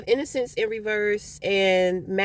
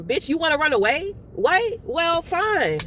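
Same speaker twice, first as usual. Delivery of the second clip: higher pitched mock disbelief on What; a hammed-up huh then shrug it off; mock surprise; 6 semitones higher than usual. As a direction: pretend offended surprise. Acting out being rejected.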